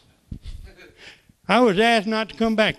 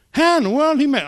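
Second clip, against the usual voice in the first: high, louder disbelief; high, loud amazed question; 8 semitones higher, 5 dB louder than usual. Real, not acted. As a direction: marvel at it out loud. Amazed at smooth talker.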